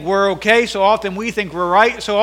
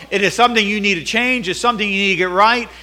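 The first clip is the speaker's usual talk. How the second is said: preaching rebuke; 3 semitones higher than usual. Acted. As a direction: drive home the charge. Preaching at full force.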